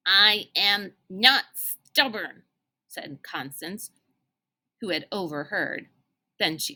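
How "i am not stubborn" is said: put-on indignant toddler. Toddler Constance protests.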